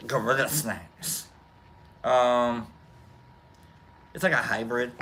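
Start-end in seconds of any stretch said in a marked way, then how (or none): 0.1-1.3 Gorilla Snacks stretched slowly and dropping at the end; said like that, drawn out. Shown as a demonstration. Vlogger savoring the strain name, drawn out. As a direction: draw out Gorilla Snacks, falling. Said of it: "I gotta say it like that".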